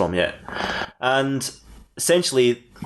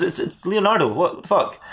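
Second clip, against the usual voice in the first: Leonardo; 6 semitones higher than usual. Acted. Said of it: "He goes".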